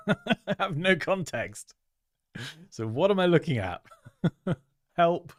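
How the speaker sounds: high, giggly helplessness; laughing bafflement. Real, not acted. Streamer reviewing a design without any context, laughing and baffled. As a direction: laugh through your confusion.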